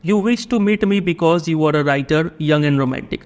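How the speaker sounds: drawn-out, deliberate reading of the text; slow passage reading. A narrator's reading. Teacher reading the English passage to the class, very slow. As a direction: read it slowly so students can follow. Reads the story passage aloud.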